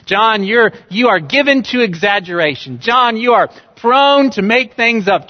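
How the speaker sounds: a doubter in the pews scoffing at John; skeptical doubter. Retold or imitated. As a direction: needle John like an incredulous skeptic. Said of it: "just in case you're like".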